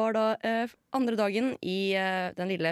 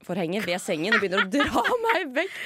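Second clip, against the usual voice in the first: laughing, louder, mid-story; 2 semitones higher, 5 dB louder than usual. Real, not acted. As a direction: giggle through the absurd escape. Laughs retelling escape.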